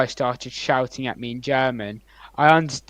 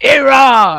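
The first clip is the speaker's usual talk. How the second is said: very loud, high, stretched-out yell; 13 semitones higher, 12 dB louder than usual. Quoting a man who hates Iran answering a question: shouted Iran. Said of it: "I said that a bit too loud".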